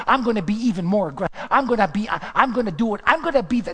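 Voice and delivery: loud, high defiant outburst; king answering his wife, loud and defiant; defiant David. Acted. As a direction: fire it back at the mocking wife. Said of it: "And David said".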